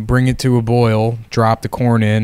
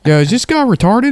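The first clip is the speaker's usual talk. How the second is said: mocking local; 11 semitones higher than usual. Mocking local reacting to tourists.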